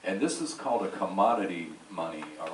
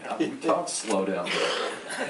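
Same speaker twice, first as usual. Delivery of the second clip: Southern slow drawl; slower than usual. Retold or imitated. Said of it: "you talk so slow".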